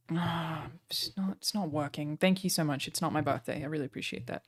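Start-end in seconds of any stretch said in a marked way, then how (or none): 0.1-2.2 quiet disappointment. Real, not acted. Disappointed at view count.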